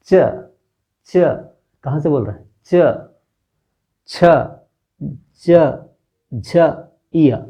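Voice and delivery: च, छ, ज, झ, इय said with the tongue tip on the palate; teacher showing the palatal row; palatal letter demo. Shown as a demonstration. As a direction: sound out च छ ज झ one at a time. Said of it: "आपके जीभ का जो टीप है".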